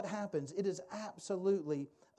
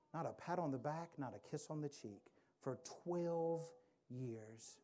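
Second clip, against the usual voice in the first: softer, lingering on twelve; 5 dB quieter than usual. Real, not acted. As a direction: let each loss sink in quietly. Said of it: "I want you to think about that".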